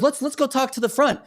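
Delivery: high-pitched imitation of an annoyed woman; retold challenge. Woman at the gym challenging a man, high retold demand.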